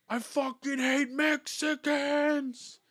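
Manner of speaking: slow, high mock yell at nobody; hammed-up angry rant; imitating a stranger's angry scream; retold screaming. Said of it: "started screaming".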